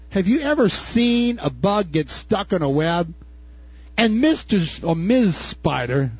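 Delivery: usual speaking voice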